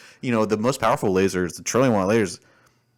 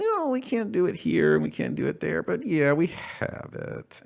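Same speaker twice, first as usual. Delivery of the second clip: mocking officials; 11 semitones higher than usual.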